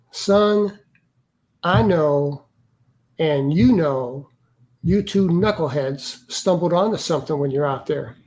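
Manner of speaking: slow, deliberate Southern drawl, broken by pauses; a hint of Southern officer, measured and knowing; retold Southern accent. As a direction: lightly imitate a Southern major confiding a secret. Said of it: "he had that very thick Southern accent".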